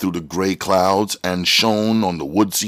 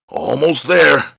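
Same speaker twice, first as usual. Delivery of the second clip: straining shout; 6 semitones higher, 7 dB louder than usual. Acted. Straining to reach the button.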